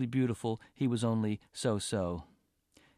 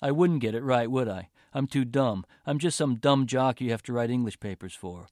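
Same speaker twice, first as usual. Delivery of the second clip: bitter and louder; 4 dB louder than usual. Acted. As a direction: spit it out resentfully. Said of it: "Dabney let out a bitter laugh".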